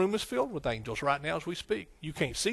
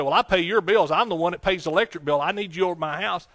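louder, insistent complaint; mock arguing customer; 2 semitones higher, 5 dB louder than usual. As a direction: push back like a customer who pays the bills. Arguing with the lineman.

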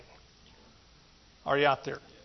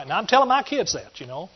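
ordinary talk

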